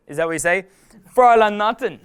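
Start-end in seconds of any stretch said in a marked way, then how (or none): 1.1-2.0 higher, badly faked German; bad German accent. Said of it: "so really bad German accent".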